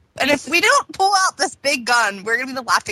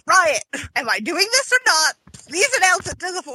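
fast, higher, eager urging; impatient mock plea; 5 semitones higher than usual. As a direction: hurry them along, pleading. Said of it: "and I'm like".

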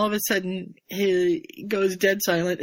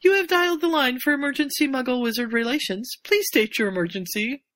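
cool female robotic voice; 3 semitones higher than usual. Retold or imitated. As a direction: speak like an automated phone line. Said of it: "cool female ... somewhat robotic voice".

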